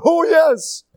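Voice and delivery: high mock teen voice, slow and smug; mocking a lazy kid. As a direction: ham up a carefree teen bragging about not working. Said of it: "Today he's like".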